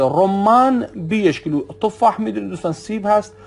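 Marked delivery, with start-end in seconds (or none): 0.0-1.6 رمان بیش کیلو said slowly, as rumman beesh kilo; slow clear Arabic example. Shown as a demonstration. Teacher giving a market example, رمان بیش کیلو slowly and clearly. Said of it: "یا انار کیلویی چنده".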